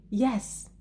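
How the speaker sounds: Yes. stressed with a rise and fall; intonation on Yes. Shown as a demonstration. Teacher modelling answer about museums, emphatic intonation on Yes. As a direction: put emphatic melody on "Yes.". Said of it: "you should use intonation".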